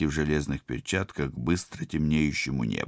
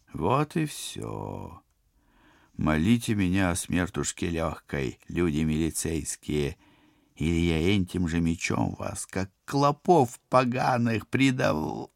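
villain voice; 3 semitones higher than usual. Acted. Koshchei's final threat.

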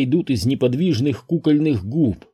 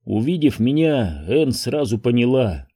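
plain reading voice

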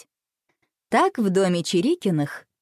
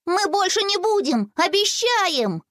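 put-on high childlike promise, much higher, last word slow; pleading promise; 12 semitones higher, slower than usual. A narrator's reading. Twins promising father, high pleading child voice. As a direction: promise like a guilty kid. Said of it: "хором произнесли близнецы".

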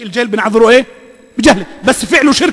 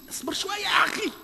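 exasperated shout; 9 semitones higher, 16 dB quieter than usual. Acted. Mocking a procrastinator's excuse.

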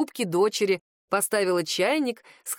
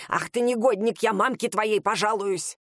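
shrill nagging grandma. Acted. Old woman scolds policeman.

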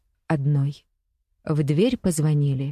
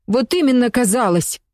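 sharp, loud and higher, biting back; angry shout; 6 semitones higher, 4 dB louder than usual. A narrator's reading. Katya snapping back at her friend, angry and loud. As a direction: throw the word back at her in anger. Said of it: "зло крикнула Катя".

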